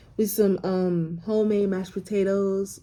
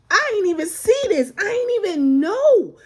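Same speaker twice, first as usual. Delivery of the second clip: lifted, higher voice for the leasing agent; 9 semitones higher, 4 dB louder than usual. Retold or imitated. Quoting the leasing agent in a higher voice. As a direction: play the leasing agent, pitched up. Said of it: "she said".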